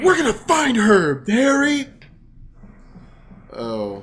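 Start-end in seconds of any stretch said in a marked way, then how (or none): 0.0-1.9 high, loud rallying cry; mock heroic Luigi. Voicing Luigi to Harry Mason, a high loud vow. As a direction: cheer him on like a cartoon hero. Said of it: "voicing Luigi".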